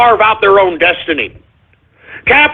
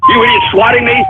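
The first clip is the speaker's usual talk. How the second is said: panicked shriek. Acted. Panicked reaction to swatting.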